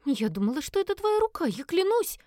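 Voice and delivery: put-on high, flustered girl's voice; Элис frightened squeak. A narrator's reading. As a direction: squeak it out in a panic. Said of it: "испуганно пропищала Элис".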